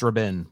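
Rabin said as ruh-BIN; reported pronunciation. Shown as a demonstration. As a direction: say Rabin with a reduced first vowel, ruh-BIN. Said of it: "it's apparently pronounced".

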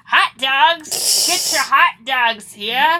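loud, high vendor call; stadium vendor hawking. Retold or imitated. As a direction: call out hot dogs across the stands. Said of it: "the vendors going".

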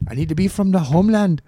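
lilting Irish voice; mock Irish brogue; put-on Irish accent. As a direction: speak as the Irish persona. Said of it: "It's the Irishness".

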